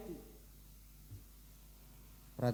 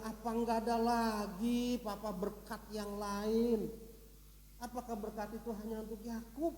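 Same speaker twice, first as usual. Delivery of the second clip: drawn-out, mildly tearful begging; understated acted lament, stretching the words; mock wailing plea; 3 semitones higher, 5 dB quieter than usual. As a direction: plead like a crushed son. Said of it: "dia meraung-raung nangis".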